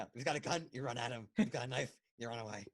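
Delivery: badly faked movie tough-guy impression; terrible Al Pacino. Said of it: "That's a terrible Al Pacino impression".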